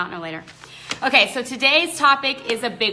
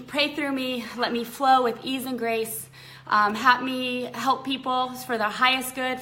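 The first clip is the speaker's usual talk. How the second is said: prayer. Acted. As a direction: humbly ask God to guide her. Prays aloud before the session.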